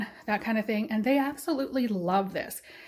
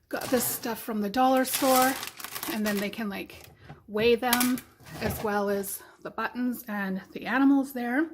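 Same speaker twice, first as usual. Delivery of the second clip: out of breath. Real, not acted. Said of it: "I'm out of breath".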